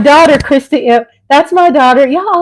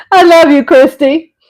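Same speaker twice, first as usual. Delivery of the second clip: laughing; 5 semitones higher, 4 dB louder than usual. Real, not acted. Laughing at her own joke.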